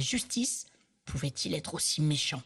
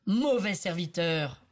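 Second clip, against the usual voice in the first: stern rebuke; slower than usual. Acted. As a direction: condemn the bad servant firmly. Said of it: "lança le roi".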